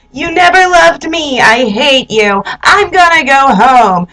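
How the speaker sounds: imitated tantrum, starting high; hammed-up wounded girlfriend; upset, melodramatic. Girlfriend threatening to leave her boyfriend, mock-upset outburst. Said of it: "gets all upset for no reason".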